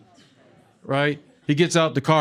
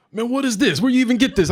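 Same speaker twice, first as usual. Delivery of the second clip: amused cop; 8 semitones higher than usual. Retold or imitated. Cop amazed at the weed.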